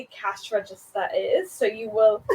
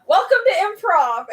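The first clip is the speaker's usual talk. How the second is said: teacher quote; 6 semitones higher, 7 dB louder than usual. Retold or imitated. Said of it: "my teacher just went".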